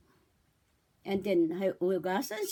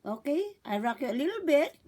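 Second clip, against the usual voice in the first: put-on talking to a baby; 2 semitones higher than usual. Shown as a demonstration. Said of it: "O kaya".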